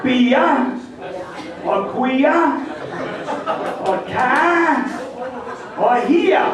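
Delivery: bia, quia, hia end in "uh", no R; Maine dropped R. Shown as a demonstration. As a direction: say ka with an open "ah" and no R. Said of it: "words that contain A R".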